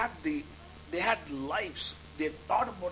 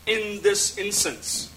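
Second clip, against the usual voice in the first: raised, challenging question to God; confused protest; 4 semitones higher, 5 dB louder than usual. Retold or imitated. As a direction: press God for an answer, louder and higher. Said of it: "I was confused". (verwirrte, laute Rückfrage)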